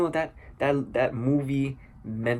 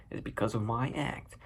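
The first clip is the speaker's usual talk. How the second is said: subdued excuse; 7 dB quieter than usual. Retold or imitated. Arthur repeating his excuse about the gun, subdued. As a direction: repeat it under your breath.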